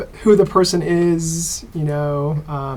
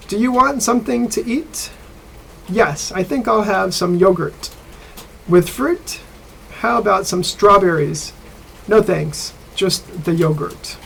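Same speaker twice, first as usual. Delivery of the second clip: dialogue read aloud; 3 semitones higher than usual. Shown as a demonstration. Teacher reading the textbook dialogue to students, clear and slightly raised. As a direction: read the listening dialogue slightly higher for the class. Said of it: "I'll read it for you".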